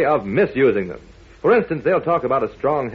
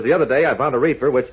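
double talk; faster than usual. Shown as a demonstration. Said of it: "trying to talk double talk".

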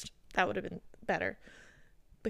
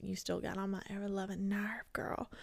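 hushed playful jab at her sister; soft teasing whisper; 7 dB quieter than usual. Real, not acted. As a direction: drop to a whisper for the tease.

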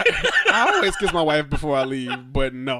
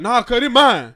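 a louder, higher, half-joking imitation of a stubborn no; mock tough refusal; 8 semitones higher, 7 dB louder than usual. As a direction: play the guy refusing to hand back the ball. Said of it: "And he's like".

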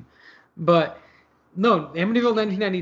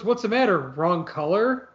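quoting the guy. Retold or imitated. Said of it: "he goes".

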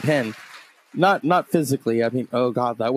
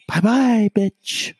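mocking goodbye; 8 semitones higher, much slower than usual. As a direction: wave him off with a taunt. Mocking farewell to a rapper.

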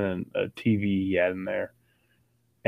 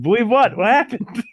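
high, loud, bewildered demand; frantic questioning; 12 semitones higher, 7 dB louder than usual. Retold or imitated. Confused friend answering a freaked-out caller, frantic questioning. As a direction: act out urgent disbelief, voice shooting up. Retold excited FaceTime call about game.

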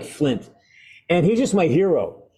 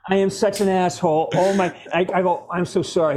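retold panic, pitched up; mildly hammed-up "oh no" apology; mortified apology; 4 semitones higher than usual. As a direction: replay your horror at hurting him. Retelling his horrified apology after handshake.

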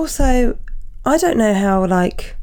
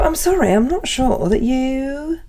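pointed mock apology; 5 semitones higher than usual. Voices a rebuke to a vaccine doubter.

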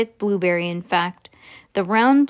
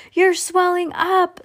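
high, drawn-out exclamation; storybook scream, pitched way up; screamed alarm; 9 semitones higher, 3 dB louder, slower than usual. A narrator's reading. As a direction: cry it slowly in horror. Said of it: "screamed Missus Beauregard".

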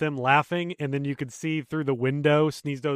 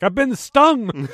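high, slow, laughing cry; mock outrage; 7 semitones higher, 5 dB louder, much slower than usual. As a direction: wail it slowly through a laugh. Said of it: "call my bank and be like".

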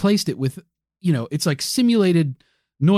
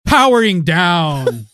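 slow robotic powering down; 6 dB louder, slower than usual. Pretend. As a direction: wind down like a machine. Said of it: "turn off the bunk tech bunker alarm".

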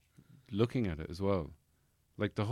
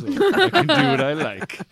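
defiant yell; 12 dB louder than usual. Retold or imitated. Defiant teen rant.

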